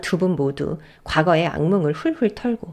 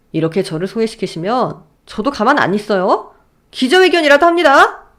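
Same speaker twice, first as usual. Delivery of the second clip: defiant talking back. Acted. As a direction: talk back with spite. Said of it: "악에 받쳐서 말을 대차게 받았습니다". (악에 받쳐 대드는 남편)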